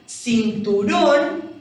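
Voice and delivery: "cinturón" slowly, weight on the final rón; teacher stressing the end of "cinturón"; stress on last syllable. Shown as a demonstration. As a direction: stretch out "cinturón", leaning on rón. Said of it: "en la última sílaba".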